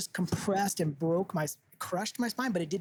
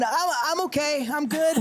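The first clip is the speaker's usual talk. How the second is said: high, strained voice insisting he's fine; recreated dazed reassurance; 9 semitones higher than usual. Retold or imitated. Recreating the sound for the hosts, high dazed reassurance. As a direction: squeak out that you're okay. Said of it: "Can you recreate the sound that you made".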